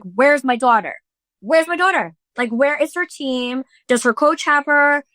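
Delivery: mildly frantic questions, pitch climbing; retold freak-out. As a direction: re-enact a worried mother searching. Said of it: "I'm freaking out".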